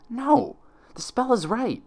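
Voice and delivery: high, slow, insistent pony voice; Twilight's stubborn denial. Acted. Twilight to herself as the spell unravels, high and insistent. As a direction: she refuses to accept the spell is failing.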